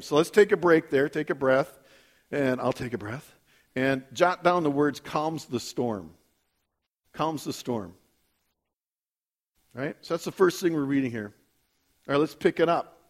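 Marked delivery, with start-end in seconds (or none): 5.0-7.9 measured, lowered dictation pace; slow dictation. Real, not acted. Preacher giving listeners words to jot down, slow dictation. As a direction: spell out each word slowly for note-takers.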